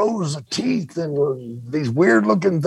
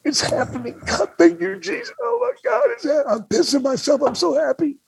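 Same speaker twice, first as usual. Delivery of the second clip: high whispery ecstatic gasps rising higher; giddy disbelief, voice climbing very high; overjoyed; 13 semitones higher than usual. Retold or imitated. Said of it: "I'm sitting there going".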